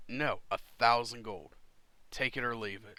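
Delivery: firm refusal, loud at the start; captain laying down a final offer; firm captain haggling. Acted. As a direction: put your foot down on the price. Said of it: "looks and goes".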